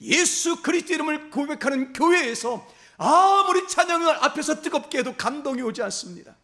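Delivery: fervent preaching. Acted. Pastor urging the congregation to burn with faith, fervent preaching. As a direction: preach it at full force to wake the church.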